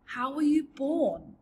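put-on bright young girl; Sophie voice. A narrator's reading. Sophie character voice.

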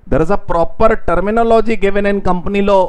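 slow dictation. Shown as a demonstration. Teacher dictating notes.

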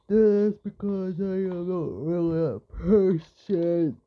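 talking through a yawn; stretched words while yawning. Real, not acted. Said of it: "Sorry for yawning".

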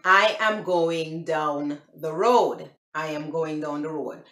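"I am going down the road" with each word separate; careful, low-key English "I am going down the road"; English version. Shown as a demonstration. Vlogger translating for viewers, English "I am going down the road". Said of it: "the English version, it would be".

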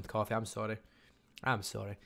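quiet words through a yawn. Real, not acted. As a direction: yawn while apologising. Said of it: "Making you yawn".

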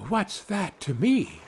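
high, slow retort from a little man; lightly voiced high little fellow; cheeky little Tom. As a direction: toss it back in a high voice. Voices Tom answering the wolf.

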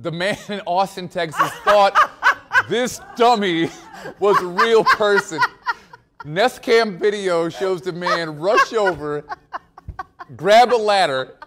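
giggling through the report; fighting back laughter while reading; anchor stifling giggles. Real, not acted.

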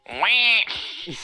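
high, slow, loud Mario call; high drawn-out plumber shout; Mario impression. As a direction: stretch the greeting out like the plumber. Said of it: "My voice is too deep".

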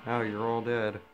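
loud triumphant gloat; now you're all dead, loud. Real, not acted. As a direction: crow over the fallen. Gloating after killing enemies.

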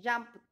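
"jumped" with an emphasised T ending; final T sound. Shown as a demonstration. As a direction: punch out "jumped" as jumpt.

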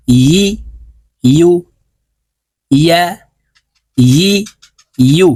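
ইয়া, ই, ইউ each begun with a clear y glide; measured drill, ই as yi and ইউ as yu; careful Arabic ya syllables from the middle of the tongue. Shown as a demonstration. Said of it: "জিব্বার মধ্যখান থেকে ইয়া হরফ উচ্চারণ হবে".

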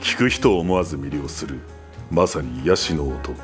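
lowest possible reading voice; low register drop. Shown as a demonstration. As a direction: read in your deepest register. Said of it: "自分が出せる一番低い音で原稿を読んでもらい".

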